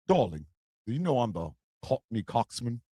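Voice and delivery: low, soft sweet-talking husband act; mock husband. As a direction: murmur it low, as if to the wife. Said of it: "don't be telling her".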